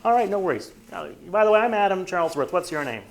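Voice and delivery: high, loud easygoing intro; casual doorstep introduction; friendly agent. Retold or imitated. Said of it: "And you're like".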